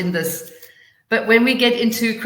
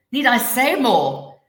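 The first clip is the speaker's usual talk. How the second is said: "say" raised, louder and drawn out; stress on say; 5 semitones higher, 6 dB louder, slower than usual. Shown as a demonstration. Teacher showing how stress changes meaning, stress on "say". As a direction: slowly punch the word "say". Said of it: "underlining different words".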